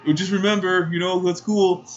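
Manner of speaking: high-pitched parting plea, imitated; mock awkward guy refusing to give up; cringey attempt at sounding cool; cringey suitor. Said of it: "in the most cringiest voice".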